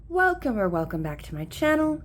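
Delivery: soft, hushed welcome in a light Scottish-Irish lilt. Acted. Lou welcoming viewers, softly, in a Celtic accent. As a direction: greet them gently as Lou with a Celtic accent. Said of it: "sounding a little bit more Irish or Scottish".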